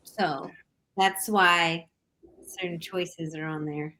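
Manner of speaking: hesitant, with long pauses between phrases; unconfident. Real, not acted. Guest justifying her lineup to the hosts, unconfident. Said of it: "you don't sound confident".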